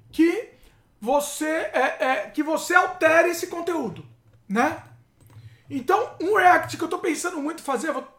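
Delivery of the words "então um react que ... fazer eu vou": talking while chewing; words round a mouthful of food; mouth full. Real, not acted. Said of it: "comendo e falando é difícil".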